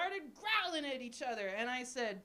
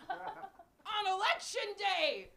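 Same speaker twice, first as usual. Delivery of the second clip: hammed-up sad; 6 semitones higher, much slower than usual. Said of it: "gets slightly sadder".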